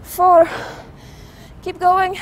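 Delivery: loud coaching call; shouting encouragement. Real, not acted. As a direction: shout the count to push them on. Coach calling out reps.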